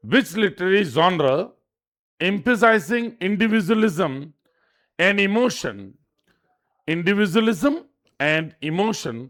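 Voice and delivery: very slow, deliberate quiz reading; slow question read-out. Shown as a demonstration. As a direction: read each word out slowly for students to note.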